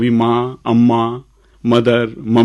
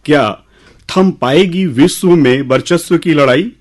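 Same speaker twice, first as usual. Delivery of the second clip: measured, lilting recital with pauses; poem recitation; 2 semitones higher than usual. Acted. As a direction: recite verse to an audience, leaning on key words. Recites his own poem.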